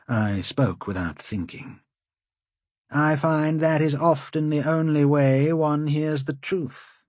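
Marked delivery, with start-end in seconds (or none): 2.9-7.0 arrogant nobleman, a bit higher; proud, mocking lord; haughty lord. A narrator's reading. Lord Wold's witty retort.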